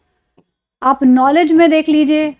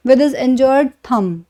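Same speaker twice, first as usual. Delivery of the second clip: "With his injured thumb" said very slowly; drawn out, word by word; very slow example; much slower than usual. Shown as a demonstration. Teacher reads example to class, very slowly.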